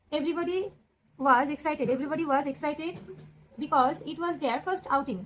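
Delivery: very slow, every word spaced; slow dictation. Shown as a demonstration. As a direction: spell out the answer slowly. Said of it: "প্রশ্ন উত্তরটা কি হয়ে যাচ্ছে". (খুব ধীরে, প্রতিটি শব্দ আলাদা করে)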